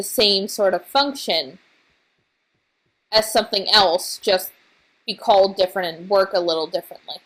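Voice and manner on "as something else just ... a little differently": talking through hiccups; words broken by small hiccups. Real, not acted. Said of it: "I'm hiccuping again!".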